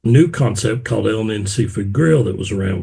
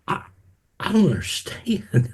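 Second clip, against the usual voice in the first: exasperated quote; 8 semitones higher, 4 dB quieter than usual. Retold or imitated. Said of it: "I'm like".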